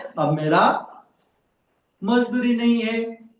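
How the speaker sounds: angry boatman. Acted. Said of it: "इतना गुस्सा आया".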